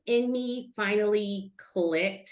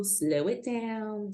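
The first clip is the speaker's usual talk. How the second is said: slow it down; 2 semitones higher, 5 dB quieter, much slower than usual. Shown as a demonstration. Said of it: "advice to self".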